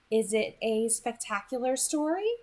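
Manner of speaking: a hint of an amused, knowing girl; Edith's voice. Edith teasing Beau about his questions, amused lilt.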